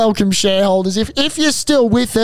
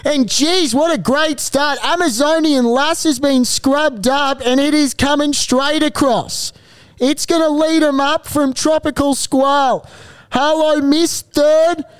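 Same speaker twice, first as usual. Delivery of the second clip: race caller. Acted. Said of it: "if that call didn't impress you".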